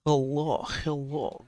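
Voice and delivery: Hello, hello with a dropped h, said like "əlɔ" in a put-on foreign accent. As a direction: greet them in a playful fake accent. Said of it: "I don't know why I'm using that accent".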